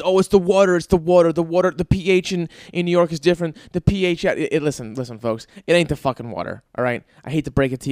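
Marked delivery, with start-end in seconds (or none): 0.0-4.4 mocking know-it-all. Host mocking people who blame the water, put-on voice. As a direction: parody the pizza snobs. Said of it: "Everyone says".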